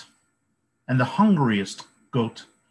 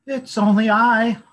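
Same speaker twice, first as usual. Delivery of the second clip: much higher, louder tiny squeak; squeaky little goat; 11 semitones higher, 8 dB louder than usual. A narrator's reading. Littlest goat answers the troll in a high squeak. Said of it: "the littlest billy goat squeaked".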